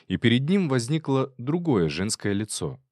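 usual speaking voice

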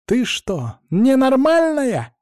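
high, slow furious yell. Acted. Marьяна yelling at her friend in the water, furious. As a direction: scream it at her in fright-fed rage. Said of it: "она на меня орала".

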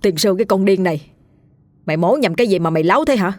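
mild mock bark at a crazed wife; understated angry telling-off, rushed in the middle; a strong man lightly voiced scolding; scolding shout. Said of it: "rồi quát".

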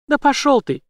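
high, loud furious yell; furious shout. A narrator's reading. Jane cursing the villain, high furious yell. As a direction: scream it at him.

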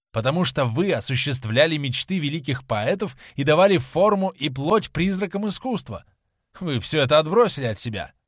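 acted bitter tirade of a disillusioned lover; scornful young lover. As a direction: heap contempt on the actress, moderately heated. Voices Dorian's scornful tirade. (презрительная, горькая отповедь влюблённого)

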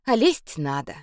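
usual speaking voice

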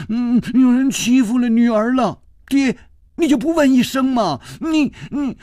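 high-pitched whining complaint; acted crying plea, pitched very high; tearful voice. A narrator's reading. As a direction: wail to father for sympathy. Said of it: "施少奶奶带着哭音儿说".

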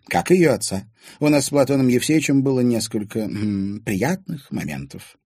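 a lightly voiced old lady, slowing coyly; hint at a past romance; old lady recalling an affair; coy reminiscence. A narrator's reading.

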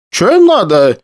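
put-on high, alarmed old woman; a frightened granny peering out. A narrator's reading. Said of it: "Перекошенная от ужаса бабка".

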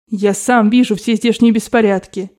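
plain reading voice

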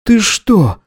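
high, stunned question; incredulous high-voiced query; dazed disbelief. A narrator's reading. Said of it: "ошалело спросил Гидеон".

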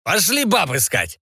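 slow, high tipsy pirate; drunk pirate. A narrator's reading.

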